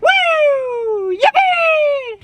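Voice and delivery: high loud whooping cheer; excited cheer. Pretend. Celebrating move to Texas.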